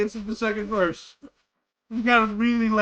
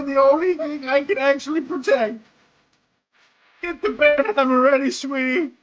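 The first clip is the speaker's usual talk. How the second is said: mock outrage. Player's hammed-up rant at game character.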